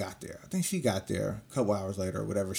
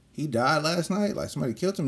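shocked disbelief; 6 semitones higher than usual. Retold or imitated. Retelling hearing of the killing, stunned disbelief. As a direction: retell hearing the news, floored.

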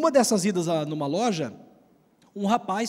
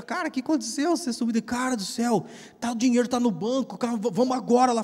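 excited confrontation; 4 semitones higher than usual. Retold or imitated. Confronting the man who vanished.

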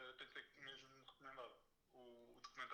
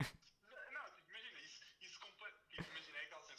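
excited protest; 3 semitones higher, 4 dB louder than usual. Real, not acted. Eager reassurance, voice jumps up.

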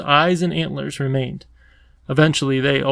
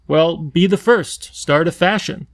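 excited; 3 semitones higher, 3 dB louder than usual. Acted. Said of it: "waved his arms excitedly".

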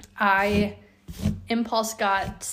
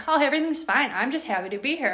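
innocent dog voice; 4 semitones higher, 3 dB louder, faster than usual. Retold or imitated. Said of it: "he'll come in like".

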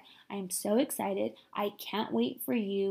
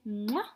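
kiss sound. Real, not acted. Blowing a last kiss.

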